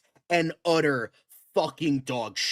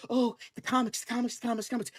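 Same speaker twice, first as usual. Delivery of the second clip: higher, nagging voice repeating the comics; mocking whiny fan; 6 semitones higher, much faster than usual. Ranting host mocking fans who cite the comics, whiny. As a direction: parrot the fans with sarcastic whine. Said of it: "I'm so sick of".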